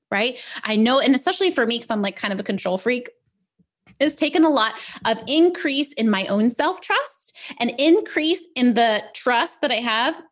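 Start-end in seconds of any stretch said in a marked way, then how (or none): 4.0-10.2 talking through hiccups. Real, not acted. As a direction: hiccups breaking up the words. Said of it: "hiccuping left and right".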